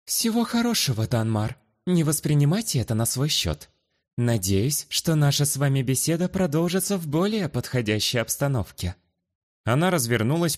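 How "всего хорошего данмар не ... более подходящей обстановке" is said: warm farewell. Acted. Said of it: "одарила меня тёплой улыбкой".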